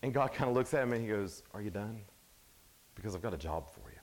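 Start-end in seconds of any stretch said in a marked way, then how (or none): 1.5-4.0 God, dry and firm. Retold or imitated. God answers sulking Elijah.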